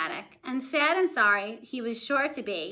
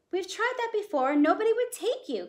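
mother crying out; 9 semitones higher than usual. A narrator's reading. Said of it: "cried his mother".

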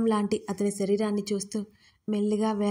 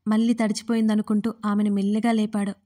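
plain reading voice

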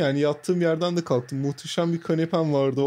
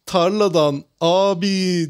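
slow, stretched street vendor cry; drawn-out hawker shout; imitating vendor's yell; 4 dB louder, much slower than usual. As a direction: call it out like a tomato seller. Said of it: "diye bağırdı".

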